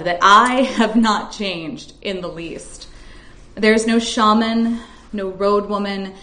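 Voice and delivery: measured, deliberate poem reading with weighted pauses; reading a haunted confessional poem; poetry reading. Acted. Reads her poem aloud.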